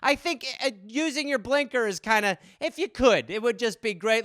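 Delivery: high, apologetic, timid voice; trying to appease an angry driver; meek politeness. Retold or imitated. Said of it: "You're like".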